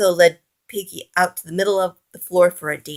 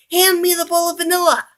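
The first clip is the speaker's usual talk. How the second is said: loud boast; 10 semitones higher, 3 dB louder than usual. A narrator's reading. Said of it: "Oliver shouted".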